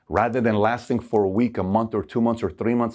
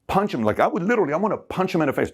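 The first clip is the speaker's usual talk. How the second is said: put-on angry young man; 5 semitones higher than usual. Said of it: "I'm like".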